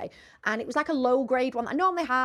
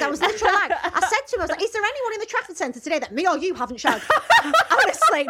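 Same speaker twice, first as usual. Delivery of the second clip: laughing, higher and louder; laughing hard; 10 semitones higher, 6 dB louder, faster than usual. Real, not acted. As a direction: crack up while telling it.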